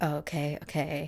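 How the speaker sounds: ordinary talk, nothing marked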